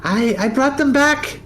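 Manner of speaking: high, loud cheery greeting of a floating skull; squeaky eager skull calling hello; Barnabas the flaming skull. Acted. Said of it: "he flies forward and he goes".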